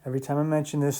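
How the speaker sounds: normal talking voice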